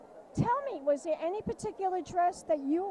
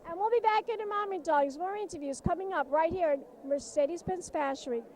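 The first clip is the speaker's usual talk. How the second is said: socialite host voice. Acted. Host signs off in character.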